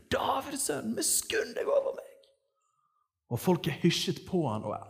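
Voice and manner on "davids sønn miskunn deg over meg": very high, strained call without extra volume; crying out. Acted. Preacher acts blind man begging Jesus, crying out. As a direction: call from afar in a high, thin voice. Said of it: "Han roper ut og sier".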